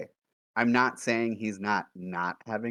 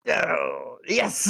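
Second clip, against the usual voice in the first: loud, high-pitched whoop of triumph; excited cheer; 8 semitones higher, 6 dB louder than usual. Real, not acted. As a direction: cheer the lucky roll out loud. Delighted at a good dice roll.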